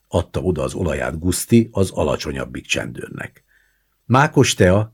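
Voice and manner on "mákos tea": loud, higher-pitched cry; cried out. A narrator's reading. Kriszta offering poppy-seed tea, crying out. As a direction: call out the drink excitedly. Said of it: "kiáltott Kriszta".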